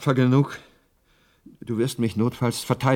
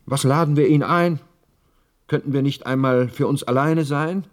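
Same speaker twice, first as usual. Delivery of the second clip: a light mock of his wife, pitched higher and louder; imitating his wife; 5 semitones higher, 4 dB louder than usual. Widower quoting his late wife's complaint, mildly mimicked. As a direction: lightly put on the wife's plaintive voice. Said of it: "Sie sagte immer".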